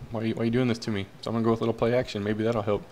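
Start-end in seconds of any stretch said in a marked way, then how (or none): 0.1-1.1 mildly exasperated, pleading coach; unhappy coach. Acted. Coach complaining to the team over penalties, mildly exasperated. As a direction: lightly act out a coach's complaint. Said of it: "He is not happy. He's like".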